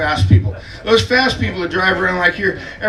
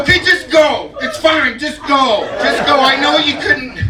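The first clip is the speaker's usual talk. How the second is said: exasperated give-in; 9 semitones higher than usual. Retold or imitated. Giving up, waving him on.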